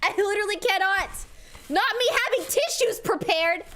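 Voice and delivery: overwhelmed, fighting back tears; crying. Real, not acted. Streamer reacting to fans' gifts, real tearful cry. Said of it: "I can't stop crying".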